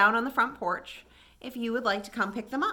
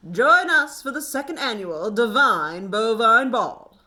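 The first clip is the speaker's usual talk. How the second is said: formal invitation; 2 semitones lower, 6 dB louder than usual. A narrator's reading. Cows' formal invitation read out.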